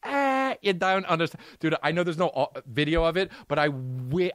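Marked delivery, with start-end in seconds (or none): 0.0-1.4 mock exasperated actor. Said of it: "I hope he went like this".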